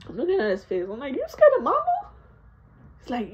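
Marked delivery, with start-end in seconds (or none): 1.1-2.1 taunting. Retold or imitated. Kid taunting dad about mama. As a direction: draw out the jab at him.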